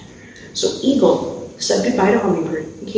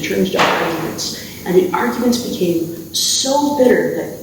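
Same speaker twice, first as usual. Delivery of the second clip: story narration. A narrator's reading. Camp instructor telling campers a legend, storytelling voice.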